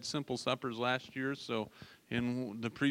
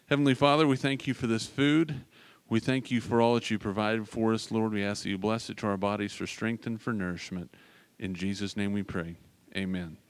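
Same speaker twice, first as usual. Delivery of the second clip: mealtime grace; 3 semitones lower than usual. Acted. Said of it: "I'll pray over the food right here".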